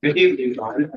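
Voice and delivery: talking around a bite of food; words muffled by a mouthful; mouth full. Real, not acted. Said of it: "Don't talk with your mouth full".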